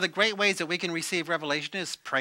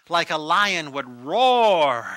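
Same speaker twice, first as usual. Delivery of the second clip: loud, drawn-out preacher's emphasis; loud and slow, swelling on roar; roaring lion emphasis; 2 semitones lower, 6 dB louder, much slower than usual. Shown as a demonstration. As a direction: stretch it out toward a lion's roar. Likening meditation to lion's roar.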